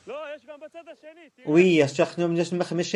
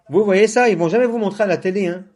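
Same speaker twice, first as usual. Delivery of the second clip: excited; 6 semitones higher, 5 dB louder than usual. Real, not acted. Indignant call-out to viewers.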